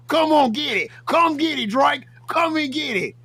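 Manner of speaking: taunting hype. Acted. Taunting Drake to come get it, high hyped calling. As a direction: egg him on like a rock star.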